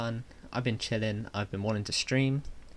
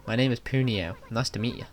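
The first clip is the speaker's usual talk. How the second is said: louder, bouncy thanks; happy bug voice; 2 semitones higher, 3 dB louder than usual. Acted. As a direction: gush like a rescued little bug. Grateful creature voiced.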